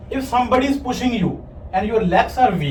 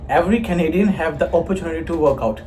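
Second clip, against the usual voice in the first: Canadian accent; 3 semitones lower than usual. Shown as a demonstration. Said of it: "It's better".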